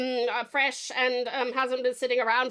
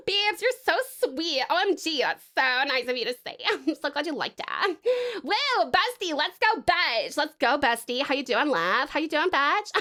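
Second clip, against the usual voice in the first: put-on valley girl. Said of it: "five whole minutes of Valley Girl voice".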